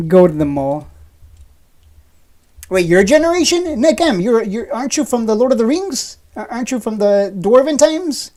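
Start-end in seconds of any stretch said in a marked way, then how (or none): 2.7-8.3 mock surprise. Real, not acted. Teasing a chat viewer about his age, mock surprise. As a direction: pitch jumps up in teasing disbelief.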